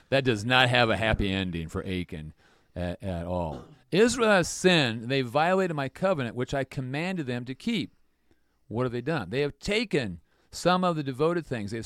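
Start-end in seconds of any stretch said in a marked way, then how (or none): 3.9-7.9 a hint of God's stern voice; solemn divine verdict. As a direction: pronounce judgment on Israel.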